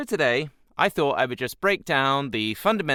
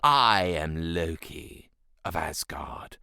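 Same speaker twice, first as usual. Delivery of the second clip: angular Loki; 5 semitones lower, slower than usual. Shown as a demonstration. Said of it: "talk very angular".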